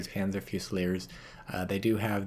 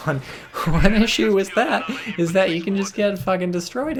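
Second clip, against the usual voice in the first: laughing it out, much higher and louder; 10 semitones higher, 8 dB louder than usual. Real, not acted. Caster laughs at the blobbed conscripts getting wiped, laughing. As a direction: break up laughing mid-sentence.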